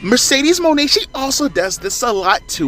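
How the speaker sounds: high, over-enunciated wrestling heel voice; girl heel voice. Retold or imitated. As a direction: enunciate every word like a smug heel. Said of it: "I'm gonna do the stereotypical girl heel voice".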